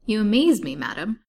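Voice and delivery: high, loud burst on the opening, then dropping; astonished gentleman's exclamation; amazed. A narrator's reading. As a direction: exclaim it in astonishment, settling by the end. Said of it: "Mister Shelton in surprise".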